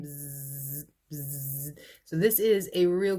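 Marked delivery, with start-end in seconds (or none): 0.0-1.8 soft bee buzz. Retold or imitated. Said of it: "the bees are buzzing".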